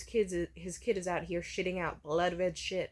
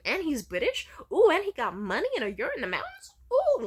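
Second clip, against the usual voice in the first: mock gushing; 9 semitones higher, 8 dB louder than usual. Mocking mom's gushing.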